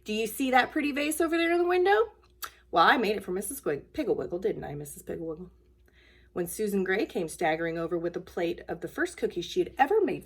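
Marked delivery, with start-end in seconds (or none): 0.0-5.5 lightly voiced proud boy; a hint of boastful child; proud little boy. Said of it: "points proudly to the vase and says".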